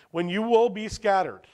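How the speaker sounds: firm, declarative scripture quote; confident. Retold or imitated. Preacher quotes Jesus' warning to the disciples, confident. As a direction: state it as a certainty. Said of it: "does that sound like maybe or confident".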